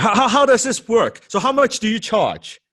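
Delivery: pushy prospect. Acted.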